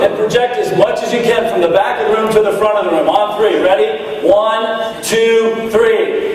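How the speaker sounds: talking around a pen held in the mouth. Real, not acted. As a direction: speak with a pencil between the lips. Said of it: "This is what we're doing now".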